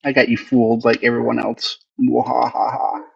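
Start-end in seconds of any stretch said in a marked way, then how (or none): 2.0-3.0 soft, slow, half-hearted mwahaha; a playful villain laugh; mock evil laugh. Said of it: "I'm completely evil".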